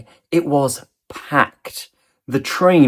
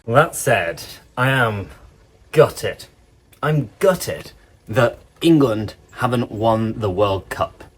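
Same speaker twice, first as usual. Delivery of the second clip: acted disappointment; 4 semitones lower than usual. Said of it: "I'm so sad".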